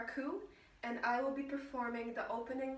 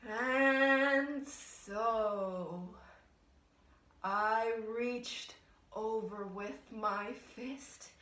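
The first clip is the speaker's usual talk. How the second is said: ominous build; 4 semitones lower, much slower than usual. Acted. Ominous build before the blow.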